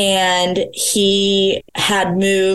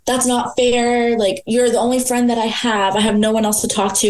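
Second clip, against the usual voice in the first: imitating his crying; 4 semitones higher than usual. Ex-boyfriend pleading not to lose her, imitated tearfully. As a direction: retell his tearful protest with the pitch pushed up. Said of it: "He starts crying".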